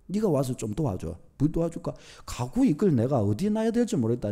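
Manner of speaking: quiet, gentle asking of a friend; a soft, friendly plea; soft pleading request. Retold or imitated. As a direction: ask your friend softly for help. Preacher voices asking friend's help.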